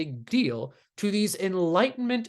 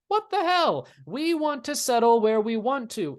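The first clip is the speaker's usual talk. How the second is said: outraged colonists; 5 semitones higher than usual. Retold or imitated. Colonists outraged at proclamation line.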